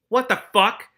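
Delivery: high, loud startled reaction; startled disbelief. Real, not acted. Reader reacting aloud to a shocking story turn, startled. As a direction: blurt it out, incredulous.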